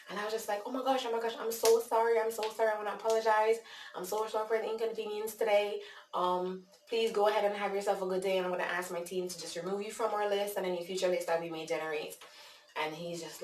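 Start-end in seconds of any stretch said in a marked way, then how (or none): 0.6-12.2 high, insistent customer-service apology; apologizing in character. Retold or imitated. Caller to an upset man on the list, profuse in-character apology. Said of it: "I am staying in character".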